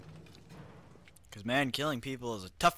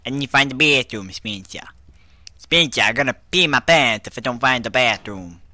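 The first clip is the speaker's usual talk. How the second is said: loud, hammed-up urgency in a put-on accent; desperate shouting; 11 dB louder than usual. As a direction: shout as if about to burst. Desperate to find a bathroom.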